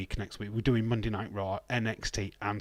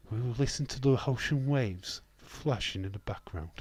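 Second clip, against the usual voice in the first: soothing sleep-tape voice. Pretend. Streamer pretending to soothe listeners to sleep, soothing. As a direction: lull them gently to sleep, mock therapy tape. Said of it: "Just listen to my voice".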